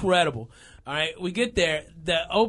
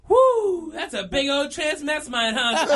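put-on amazed kid; 4 semitones higher than usual. Son amazed at performer.

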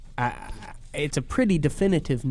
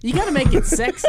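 laughing; 12 semitones higher, 5 dB louder than usual. Real, not acted. Laughing while joking.

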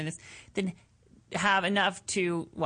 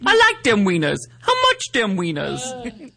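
goofy hick voice; 9 dB louder than usual. Pretend. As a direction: ham it up like a yokel. Goofy voice after soundboard.

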